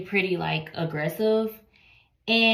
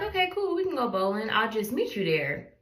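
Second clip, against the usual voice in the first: okay cool popped out much higher, bright and eager; cheery okay; 4 semitones higher than usual. Retold or imitated. Agreeing to meet her date at the bowling alley, eager high chirp. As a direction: chirp it like an excited yes to a date. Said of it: "So I was like".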